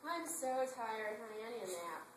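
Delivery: a slow, lightly voiced tired husband. Retelling the husband home from work, slow and tired. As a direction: drag the words like a worn-out husband. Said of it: "when he got home".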